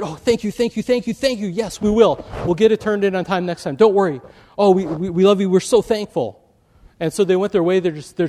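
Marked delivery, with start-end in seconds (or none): 0.0-6.4 gushing thanks. Retold or imitated. Relieved students thanking professor.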